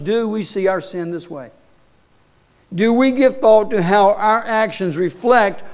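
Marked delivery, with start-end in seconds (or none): 0.0-1.5 softer, searching repeat. Shown as a demonstration. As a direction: ask it again more quietly, inward.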